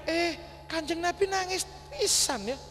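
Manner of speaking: high-pitched amazed query; surprised question. Acted. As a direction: gasp it out in wonder. Companion surprised, acted. (bertanya heran dengan nada tinggi)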